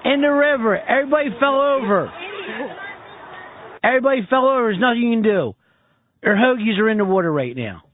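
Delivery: high, hammed-up Philly accent. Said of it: "hears me doing this accent".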